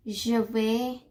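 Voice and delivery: "je vais" said as a separate piece; pronunciation model. Shown as a demonstration. Teacher showing how you pronounce it, set apart. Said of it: "when you pronounce it".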